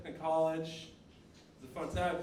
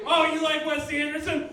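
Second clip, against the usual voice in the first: loud, higher-pitched taunt; mocking challenge; 7 semitones higher, 7 dB louder than usual. Hunter taunts a film-school rival in the dome, mocking challenge. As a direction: taunt them loudly before the attack.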